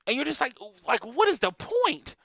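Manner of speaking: high, exasperated parent rant. Retold or imitated. Parent to a child with icing on face, exasperated and high. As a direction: raise the pitch and plead in disbelief.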